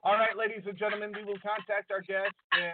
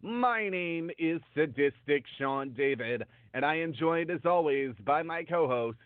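underwater; 2 semitones lower than usual. Real, not acted. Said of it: "Sean, you sound like you're underwater".

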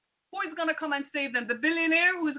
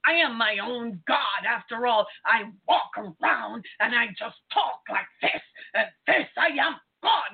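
mocking the self-proclaimed god; 3 semitones lower than usual. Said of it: "That's how we act".

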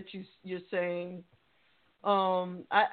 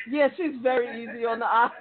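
trying not to laugh; 2 semitones higher, 6 dB louder, faster than usual. Real, not acted. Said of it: "I'm trying to be professional here".

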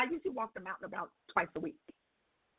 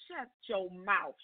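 slow, stretched-out incredulous retort; drawn-out disbelief; 3 semitones lower, much slower than usual. Retold or imitated. Patient reacting to nurse's six-week news, incredulous. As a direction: draw out each word in mock disbelief.

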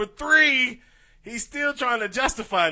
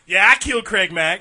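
mock boast; 8 dB louder than usual. Voices a rapper yelling.

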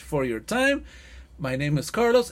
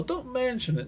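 "Don't mention it" tossed off high, brushing it aside; offhand, over it; 8 semitones higher, 4 dB quieter than usual. Shown as a demonstration. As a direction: wave it away like it's nothing. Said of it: "Así como si fuera superado".

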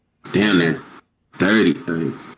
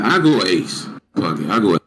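reluctant; 5 semitones lower than usual. Real, not acted. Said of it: "why you do the reluctant voice?".

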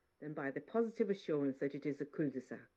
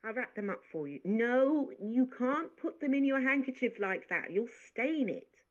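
a busy maid scolding kindly; fussing maid; 8 semitones higher, 6 dB louder than usual. Acted. Maid fussing over cherries.

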